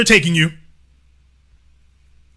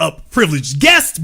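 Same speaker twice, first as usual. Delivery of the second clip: "guest" punched harder than "privileged"; stress on GUEST; 5 semitones lower than usual. Acted. Host to rich newcomer, stress on "guest". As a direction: lean on the word "guest". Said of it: "emphasis on the word guest".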